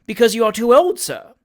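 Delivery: put-on agitated rebuke of an old friend; excited scolding. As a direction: tell him off, heated. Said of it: "considerably excited".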